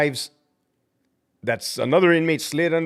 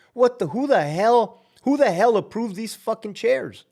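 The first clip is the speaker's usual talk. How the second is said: higher, outraged boss; angry demand; 7 semitones higher than usual. Pretend. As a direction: demand to know who approved it. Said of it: "I would say".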